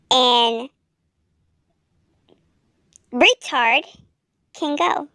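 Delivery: words pushed through clenched teeth; through gritted teeth. A narrator's reading. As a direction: grit your teeth and force it out. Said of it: "through his gritted teeth".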